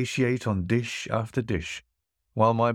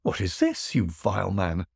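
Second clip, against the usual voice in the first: startled exclamation; 2 semitones lower than usual. Acted. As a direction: caught off guard by a slap. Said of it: "the host exclaimed".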